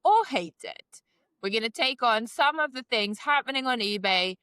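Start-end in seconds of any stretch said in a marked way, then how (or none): 0.0-0.8 slow, announcing the game title; game show host. Acted. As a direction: unveil the round like a quiz host. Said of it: "What's today's game".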